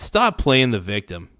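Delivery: normal talking voice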